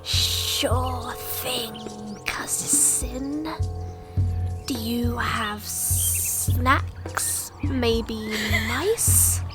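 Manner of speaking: slow hissing snake voice. Acted. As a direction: draw it out like a snake. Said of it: "the snake is like".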